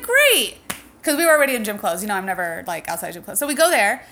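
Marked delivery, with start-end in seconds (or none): 0.0-0.6 mock excited. Retold excited reply to friend.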